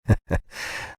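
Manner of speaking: a short, breathy bitter laugh. A narrator's reading. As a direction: scoff it out bitterly. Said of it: "Larry gave a bitter laugh".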